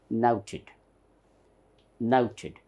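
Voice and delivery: NOUTED with a rounded "ow" in the first syllable; British "nouted": NOW plus tid; British pronunciation. Shown as a demonstration.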